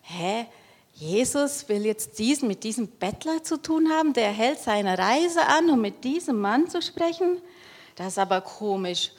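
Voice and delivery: astonished. Acted. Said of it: "jetzt sind die aber ganz schön erstaunt".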